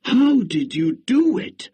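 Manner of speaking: high, loud, astonished townsfolk; amazed eager question. Acted. Townspeople amazed at Juan's harvest, high astonished question. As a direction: blurt it out in amazement. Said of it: "they all wanted to know".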